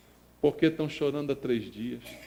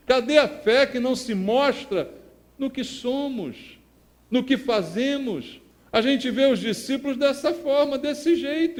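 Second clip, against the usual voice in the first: loud proclamation of the Psalm; a pastor booming Scripture from the pulpit; preaching at full force; 9 semitones higher, 3 dB louder than usual. Acted. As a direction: declare the verse to the church. Rhetorical challenge to the church.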